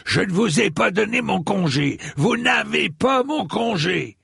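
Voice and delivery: high, outraged cry; high-pitched indignant protest; indignant yelling. A narrator's reading. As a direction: yell after deserters as their affronted lord. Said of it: "hurla-t-il à son armée qui détalait".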